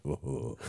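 low, soft shuddering "whoa"; imitated shudder. Friend who would shudder hearing this episode, imitated quiet shudder. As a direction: mimic someone shivering in distaste, quietly. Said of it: "she just shuddered".

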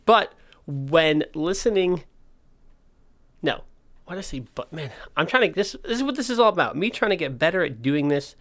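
talking without front teeth; slight lisp from missing teeth. Real, not acted. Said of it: "you might notice I don't have any front teeth".

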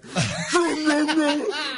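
high, mock echoing phone ring; imitated echoing ring. Storyteller mimics rings echoing in a friend's house, high echoing ring. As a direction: make the ring echo through the house. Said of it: "echoing throughout the house".

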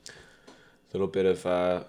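throat catching on a chip crumb; chip stuck in throat. Real, not acted. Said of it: "Sorry, we're eating chips here".

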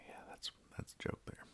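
very soft, quick mumble; deflated. Real, not acted. Host finishing a failed joke explanation, deflated. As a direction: mumble it away, nearly voiceless.

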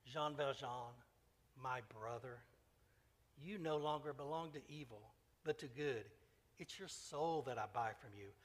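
a hint of a solemn bishop, measured and grave; lightly voiced bishop blessing the thief, steady and earnest. Bishop frees Jean Valjean, with mild solemnity. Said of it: "He resumed with solemnity".

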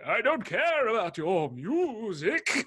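high, slow, drawn-out mock complaint; Joe Pesci. Vicar dismissing the gang's music, exaggerated Joe Pesci impression. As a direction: stretch the words out in a hammed-up voice. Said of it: "now I've cast Joe Pesci in this role".

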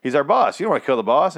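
high, urgent "whoa, calm down"; calming someone down. Retold or imitated. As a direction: rush to stop her shooting. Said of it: "and he's like".

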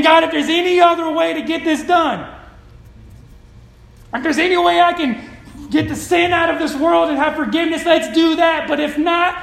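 loud, high acted prayer to God; impassioned plea. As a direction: plead forcefully, slowing hard on the last phrase. Preacher voices Jesus praying in garden.

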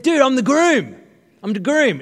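loud mock indignation; indignant insistence. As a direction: make him believe you. Insisting to barman.

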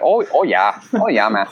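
imitated Canadian "Oh, yeah, man"; a hammed-up Canadian "Oh, yeah."; Canadian accent. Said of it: "with a Canadian accent".

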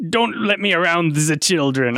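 put-on pirate slipping into French accent; badly faked French-tinged pirate; accidental French accent. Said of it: "I went with a French accent there".

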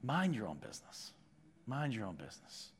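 soft, fading hushed repetition; tempting whisper. Retold or imitated. The evil one whispering to a believer, coaxing and fading. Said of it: "little whispers from the evil one".

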